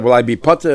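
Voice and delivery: "Potter" rises at the end as a question. Acted. Injurer asks whether he is exempt, questioning tone. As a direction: ask it, lifting "Potter". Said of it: "said in a question mark tone".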